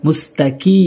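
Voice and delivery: "মুস্তাকি" with an ordinary front k; mispronunciation demo. Shown as a demonstration. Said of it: "অনেকেই ভুল করে বলে".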